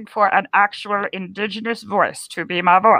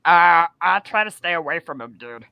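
low, wary puppet voice; changed puppet voice; 5 semitones lower than usual. Pretend. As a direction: puppet dropping lower about the dog. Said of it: "your voice changed when we started talking".

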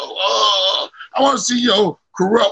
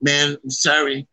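mock a regretful boss, voice dropped; white guy boss; 7 semitones lower than usual. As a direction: deliver the firing low and measured. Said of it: "white guys, come up to you and say".

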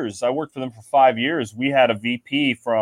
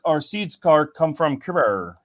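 put-on Australian accent, Cuba with an R at the end; slow Aussie drawl saying Cubar; mock Australian accent; 2 semitones higher, slower than usual. Imitating the Australian VP's thick accent, slowly. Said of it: "he had a thick accent".

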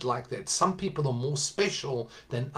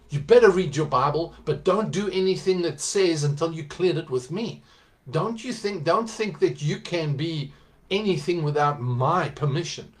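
mock controlling pastor; 2 semitones higher, 5 dB louder than usual. Voicing controlling church leader.

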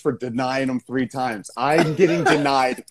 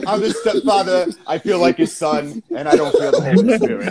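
mock Dangerfield Joseph; 3 semitones higher than usual. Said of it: "Joey Dangerfield".

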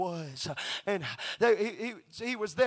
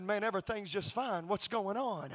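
softer, casual answer; unbothered reply; 5 dB quieter than usual. Retold or imitated. Painter answers the alarmed man, soft and unbothered. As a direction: answer softly, untroubled.

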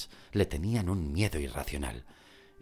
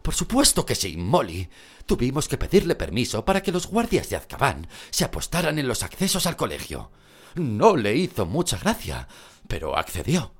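Mr. Weasley voice; 7 semitones higher, 7 dB louder than usual. Acted. Mr. Weasley answers Molly.

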